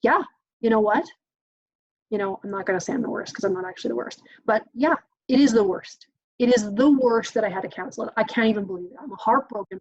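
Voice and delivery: relaxed, agreeing parent voice; demonstrating a chill reply to a kid; chill validating. Shown as a demonstration. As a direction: show calm empathy. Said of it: "respond where you're feeling chill".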